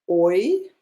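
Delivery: "oi" like the vowel of oink; teacher modelling "oi"; diphthong as in "oink". Shown as a demonstration. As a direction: model "oi" as one gliding sound, rising. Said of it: "like in the sound the pigs make".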